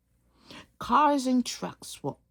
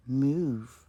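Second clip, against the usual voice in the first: rude command; 5 semitones lower than usual. Shown as a demonstration.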